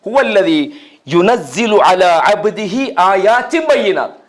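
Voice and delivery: slow Arabic verse recitation; Quran recitation. Acted. Preacher quotes Surah al-Hadid to worshippers, slow recitation. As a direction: draw out the long vowels as in recitation. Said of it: "சூரா அல் ஹதீதில் எடுத்து பாருங்க".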